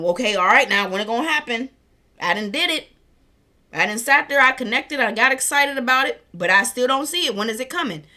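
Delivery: hammed-up whining about where it is; impatient manifester. Mocking viewers who demand results now, mock impatient. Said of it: "We're not focusing on".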